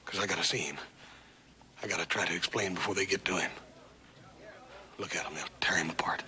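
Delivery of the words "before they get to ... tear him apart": hushed, breathy warning; whispering. Acted. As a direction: whisper so he won't hear. Hushed talk beside sleeping man.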